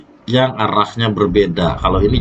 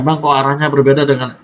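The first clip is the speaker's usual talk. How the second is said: questioning viewer; 6 semitones higher than usual. Retold or imitated. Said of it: "kalau ada yang nanya".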